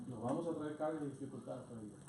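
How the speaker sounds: fast, light restatement with no weight on "cargas"; quick repeat. Shown as a demonstration. Pastor quickly repeating his warning, fast and plain. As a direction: rattle it off as a quick recap.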